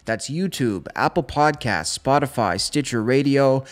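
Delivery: podcast outro announcer read; upbeat host sign-off. Acted. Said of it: "I'm gonna start talking like the announcer now".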